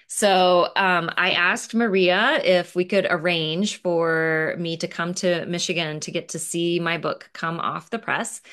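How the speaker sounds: normal talking voice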